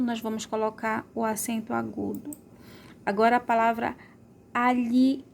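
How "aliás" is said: "aliás" split slowly before a long ÁS; "aliás" in beats, open á at the end; stressed final syllable. Shown as a demonstration. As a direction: separate the ÁS in "aliás". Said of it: "Olha qual a sílaba mais forte".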